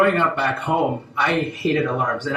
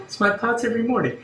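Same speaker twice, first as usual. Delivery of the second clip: laughing; 7 semitones higher, faster than usual. Real, not acted. Laughing at own confession.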